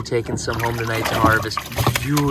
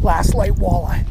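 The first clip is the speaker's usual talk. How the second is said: high, loud and thrilled; triumphant catch call; excited; 5 semitones higher, 5 dB louder than usual. Real, not acted. Fish landed.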